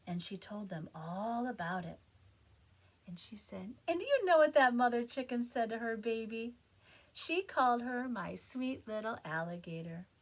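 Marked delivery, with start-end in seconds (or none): 3.9-10.1 louder excited retelling; eager telling. Acted. Jessica excitedly tells friends the strange news. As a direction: tell the news bursting with it.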